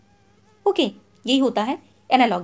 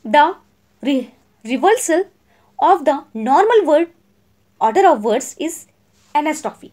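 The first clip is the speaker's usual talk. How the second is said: each word spaced out for notes; slow, clear classroom dictation; much slower than usual. Shown as a demonstration. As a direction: read it out slowly so students can write. Dictates definition slowly.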